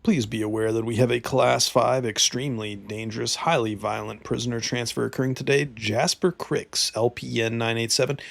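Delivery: steady, formal read-out of a security bulletin; even announcement-style reading; reading a notice aloud. A narrator's reading. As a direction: read out an official prisoner warning. Reads in-game security notice aloud.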